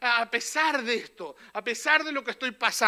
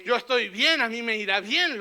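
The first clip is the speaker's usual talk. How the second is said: bold declaration; 7 dB louder than usual. Shown as a demonstration. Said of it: "lo que acabamos de decir".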